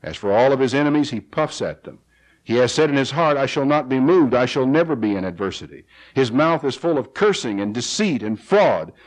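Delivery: measured reading of a psalm; scripture reading. Acted. Preacher reading the psalm to his congregation, measured. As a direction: read the verses out steadily to the flock.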